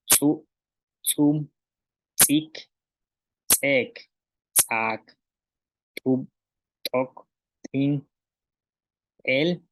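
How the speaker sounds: ejective ts in "su, sum, sik", ejective t in "tub, tok, tin"; isolated model words like "sum" and "tok", each opening consonant popped as ejective t or ts; glottalised T, TS. Shown as a demonstration. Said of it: "la ta y la tsa".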